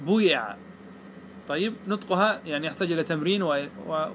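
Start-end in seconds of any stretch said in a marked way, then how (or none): 0.1-0.6 بويع with a vowel between "oo" and "ee"; ishmam. Shown as a demonstration. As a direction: blend half damma, half kasra after the b in بويع. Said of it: "نصف كسرة نصف ضمة".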